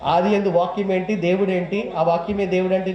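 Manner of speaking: scoffing retelling of the verse; mocking the verse. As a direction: sneer at it lightly as an unbeliever would. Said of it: "నేను ఎగతాళి చేసేవాడిని".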